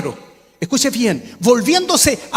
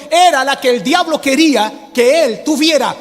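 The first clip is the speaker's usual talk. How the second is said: preaching shout; 4 semitones higher than usual. Real, not acted. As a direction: hammer it home to the congregation. Preacher building to climax.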